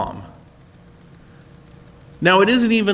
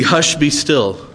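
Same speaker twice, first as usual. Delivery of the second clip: calm rebuke; slower than usual. Acted. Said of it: "he rebuked the wind".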